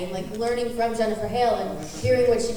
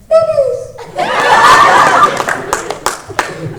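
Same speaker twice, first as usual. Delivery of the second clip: high, loud bubbly squeal of a laugh; Bubbles voice; 6 dB louder than usual. Pretend. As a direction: squeal it out like a giddy cartoon girl. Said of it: "You're your best bubble impression".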